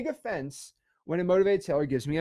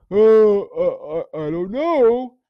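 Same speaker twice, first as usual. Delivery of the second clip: hesitant seller; 5 semitones higher, 10 dB louder, much slower than usual. Acted. Seller hesitating in acted call.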